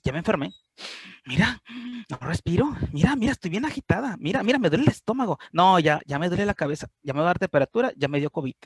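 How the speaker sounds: rising, hurried mock panic. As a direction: list the symptoms in growing alarm. Voicing anxious self-diagnosis. (pánico fingido y creciente)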